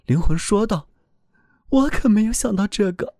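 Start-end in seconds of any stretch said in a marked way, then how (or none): 1.7-3.1 higher, earnest voice of a frightened soul; pleading soul voice. A narrator's reading. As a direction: speak up as a soul defending itself. Soul answers heaven.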